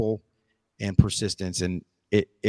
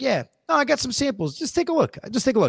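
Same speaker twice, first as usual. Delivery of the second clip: offhand, breezy, nonchalant, very high voice. Retelling his dad answering a wary customer, imitating a nonchalant dad. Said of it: "My dad was real, real like nonchalant".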